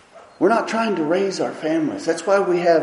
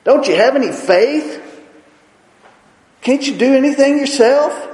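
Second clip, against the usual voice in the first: louder, higher scolding rebuke; stern scolding teacher voice; 7 semitones higher, 6 dB louder than usual. Retold or imitated. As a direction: rebuke them sharply for their lack of faith. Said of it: "I think he scolded them".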